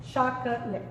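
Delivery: chocolate as choc-uh-let, three syllables joined; all syllables sounded. Shown as a demonstration. Teacher showing students the syllables, chocolate in three beats. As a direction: say chocolate with the middle schwa kept. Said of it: "tenemos la sílaba".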